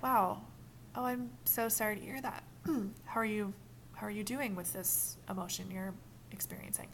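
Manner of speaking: soft, level reflecting voice; gently meet their sadness; calm empathy. Shown as a demonstration. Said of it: "But if you're like".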